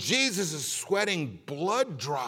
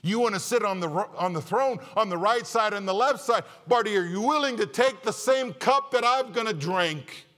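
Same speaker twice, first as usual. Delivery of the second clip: louder, higher preaching build; rising fervent sermon delivery; forceful preaching; 5 semitones higher, 4 dB louder than usual. Acted. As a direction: drive it home from the pulpit. Preacher voicing Jesus' challenge.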